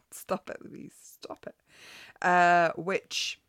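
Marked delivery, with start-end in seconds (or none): 0.1-1.6 hushed, voiceless aside, getting softer; whispered self-scolding. Real, not acted. Podcaster telling herself off after the silly voice, whispered. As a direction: whisper to yourself to behave.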